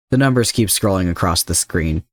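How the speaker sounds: ordinary delivery, nothing marked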